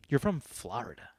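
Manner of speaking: put-on Florida as "FLAH-rida" in an East Coast accent. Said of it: "Why am I saying it like".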